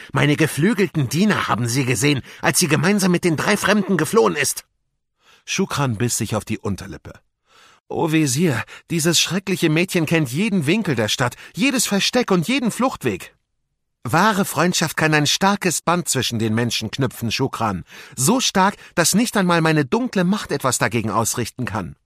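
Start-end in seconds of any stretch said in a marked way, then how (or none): 0.1-4.7 higher, louder villainous master; scheming vizier. Acted. Wesir berichtet seinem Diener. 7.9-13.4 high, louder and exasperated soldier; agitated soldier servant. Acted. Soldat rechtfertigt sich vor Wesir. 14.0-22.0 higher, emphatic villain's voice; scheming vizier, lecturing. Acted. Wesir belehrt seinen Diener.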